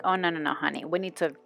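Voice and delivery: tut-tut at her own inner corner, hushed; sassy mock scolding. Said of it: "and I'm like".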